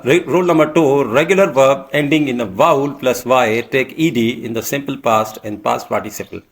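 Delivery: slow, deliberate dictation pace; measured classroom dictation; slow rule reading. Shown as a demonstration. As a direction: read the rule out word by word. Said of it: "teacher reading rule slowly".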